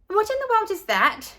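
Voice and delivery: high, grossed-out question; shocked disgust. A narrator's reading. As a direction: recoil at the strange food. Leslie gawks at sandwich.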